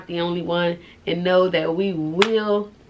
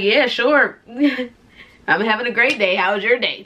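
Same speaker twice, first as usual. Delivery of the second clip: fake cheerful; 2 semitones higher than usual. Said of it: "pretend like".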